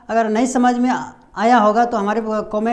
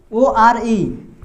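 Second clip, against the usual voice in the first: very slow letter spelling; much slower than usual. Shown as a demonstration. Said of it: "इसमें उच्चारण क्या आ रहा है?".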